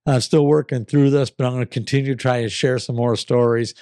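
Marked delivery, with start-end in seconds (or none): 0.1-2.8 real sick raspy voice. Real, not acted. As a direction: talk through a sore throat, raspy. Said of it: "Sorry about my raspy voice".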